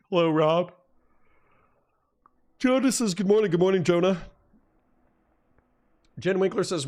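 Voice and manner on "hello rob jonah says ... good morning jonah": sing-song greeting. Acted. Greeting chat names brightly.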